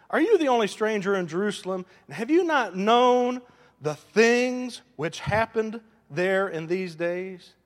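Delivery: emphatic questioning, key words stretched slowly; scripture reading. Real, not acted. Preacher reading Cleopas's question to the congregation, emphatic. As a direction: read it as an incredulous question. Reads scripture dialogue aloud.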